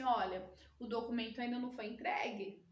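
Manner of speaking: softly tactful, gentle and indirect; delicate boss. Shown as a demonstration. Boss gently tells the team the document is late, delicate. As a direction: ease the bad news in gently. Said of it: "você fala de uma maneira mais delicada".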